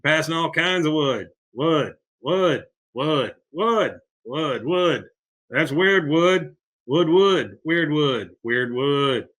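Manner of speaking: lightly acted delirious muttering on one word; mock wheezing, going nuts. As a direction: imitate a worn-out man fixating on a word. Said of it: "He's kinda wheezing".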